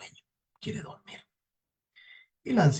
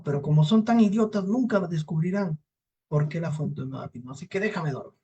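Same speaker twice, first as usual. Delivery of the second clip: higher-pitched grumbling devil, easing off; lightly voiced irritable devil; scornful sleepy devil; 4 semitones higher than usual. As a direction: dismiss the idiots and demand sleep. Devil grumbles about idiot humans.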